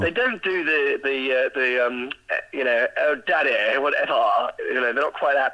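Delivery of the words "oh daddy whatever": light imitation of a Valley girl whine; a hint of a spoiled Valley kid. Father mimicking his American kids, in a light Valley girl voice. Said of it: "very much Valley kids".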